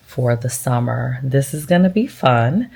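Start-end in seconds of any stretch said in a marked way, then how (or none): 1.2-2.7 dry sarcasm with a lifted ending; lightly sarcastic, rising at the end. Real, not acted. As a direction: say it with mock anticipation. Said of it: "I say that with every bit of sarcasm".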